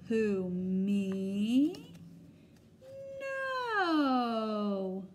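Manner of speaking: squeaky mouse voice. Acted. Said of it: "squeaks Mouse".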